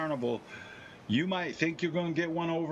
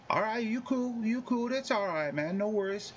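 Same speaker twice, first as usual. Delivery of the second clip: higher, easygoing street voice; gang member backing off; 7 semitones higher than usual. Retold or imitated. Gang member accepting the refusal, higher laid-back swagger. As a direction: let it go, cool and casual. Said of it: "gang members like".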